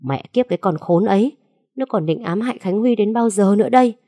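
indignant, rising outburst; angry outburst. Acted. Wife rages to her husband about the ex-wife, indignant. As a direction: spit out the curse in indignation. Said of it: "không kiềm chế được mà phải thốt lên".

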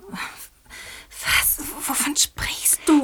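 slow sleepy whisper. Acted. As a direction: whisper slowly. Flüstern im Schlafsaal. (flüsternd)

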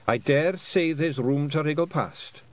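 deceptively calm, with a storm behind it; slow and calm, a warning underneath; mother's calm but ominous reply. Acted. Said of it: "in the kind of calm voice".

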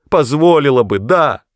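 high, loud, shrieking outburst; piercing cry. A narrator's reading. Sobbing Agnes cries out to the mother, high and loud. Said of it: "крикнула она пронзительно".

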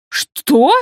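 shocked exclamation; mock startled yelp; surprised cry. A narrator's reading. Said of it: "вскрикнула от удивления".

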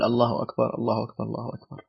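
soft repetition that speeds up and fades; softly repeating dhikr. Shown as a demonstration. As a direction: rush through the last takbirs quietly. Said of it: "قال".

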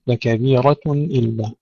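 slow recitation, thin T in لكبيرة; heavy R, light tun in لكبيرة. Shown as a demonstration. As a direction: keep the ta of لكبيرة unthickened after R. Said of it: "انتبهوا إلى ترقيقها جيدا".

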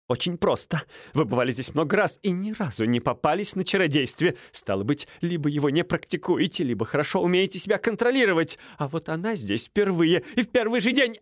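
high, brisk and triumphant; smug accuser. Acted. Стольский proving his case, high and smug. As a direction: lay out the proof, gloating.

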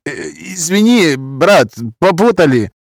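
backing down fast; nervous Roma man. Acted. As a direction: Roma accent, apologetic.

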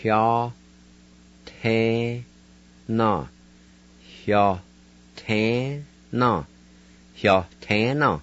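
"Hyo tan na" with an h sound before the y; corrected pronunciation. Shown as a demonstration. Teacher correcting last week's word wide for learners. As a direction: say "Hya, te, Na" in syllables, then "Hyo tan na" whole. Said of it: "pronounced like this".

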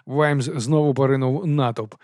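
ordinary delivery, nothing marked

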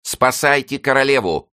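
high, loud shout for help; shouted plea. A narrator's reading. Cardinal shouts to save the queen, loud and high. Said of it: "воскликнул кардинал".

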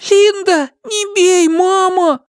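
put-on high, loud little boy plea; begging child. A narrator's reading. The boy begs his mother not to hit him. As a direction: beg mama to stop. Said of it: "boy begs while beaten".

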